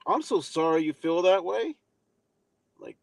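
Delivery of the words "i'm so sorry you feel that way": fake apology. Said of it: "They give you a fake apology like".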